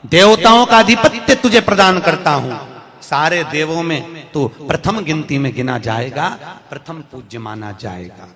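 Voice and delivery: ringing declaration, easing toward the end; proclaimed boon. Acted. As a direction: declare it grandly to the whole assembly. Shankar proclaims his boon to Ganesh.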